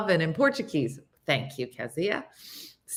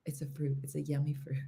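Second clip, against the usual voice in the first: suppressed laughter; 4 semitones lower, 12 dB quieter, faster than usual. Retold or imitated. Telling friend's line, overcome by laughter.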